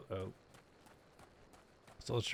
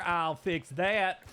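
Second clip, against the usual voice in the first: slow menacing; much slower than usual. Retold or imitated. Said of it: "quoting himself to the worker".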